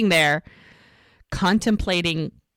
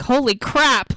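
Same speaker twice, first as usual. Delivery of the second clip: higher, delighted mock astonishment; retold amazement; 5 semitones higher than usual. He learns they're having a girl, amazed. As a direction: exclaim it like stunning good news.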